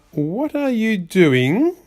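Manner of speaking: startled question. Acted. Rabbit startled by child.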